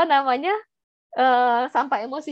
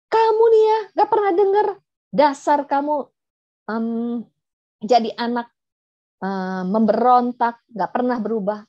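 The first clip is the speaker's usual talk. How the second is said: marah provokatif. Shown as a demonstration. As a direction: act out berating a child, pitch jumping up. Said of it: "kalau marah sama anak". (memarahi anak dengan nada tinggi dan keras)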